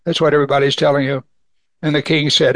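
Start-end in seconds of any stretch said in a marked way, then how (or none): 0.0-1.2 lightly mocking shrug, fast at the end; mild sarcasm. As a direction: wave it off with a hint of scorn. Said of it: "he kind of sarcastically said".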